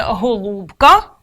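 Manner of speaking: "голубка" slowly, leaning on the у; stress on у. Shown as a demonstration. Teacher pointing out the stressed syllable, "голубка" stressed on у. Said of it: "наголошений «у»".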